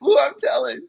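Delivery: high whiny mock tattling child; whiny tattletale. Mocking the US to a friend, high whiny tattling. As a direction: whine like a kid telling on someone. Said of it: "and then they're like".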